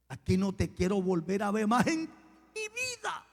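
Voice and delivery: mock rebuke rising into a shout; acted angry outburst. Pastor throwing the plotter out, acted angry outburst. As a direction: banish him, breaking into a yell at the end.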